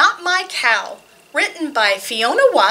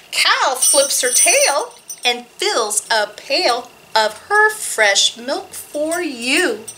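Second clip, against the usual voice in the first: poem reading; slower than usual. Acted. Reads a cow poem.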